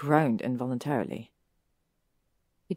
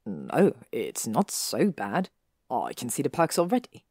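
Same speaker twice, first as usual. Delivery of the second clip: low yielding; 3 semitones lower than usual. Acted. Draco answering her close.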